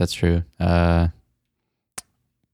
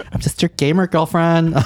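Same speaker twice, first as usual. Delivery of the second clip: put-on gamer girlfriend voice; 5 semitones higher than usual. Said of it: "I thought you were gonna be like".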